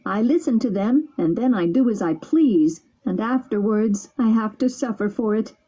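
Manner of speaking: weeping bitterly. Acted. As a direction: plead with his friend through tears. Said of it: "weeping bitterly".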